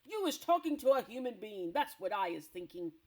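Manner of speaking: loud, accusing giant voice; menacing giant. Acted. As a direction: press him like a bully.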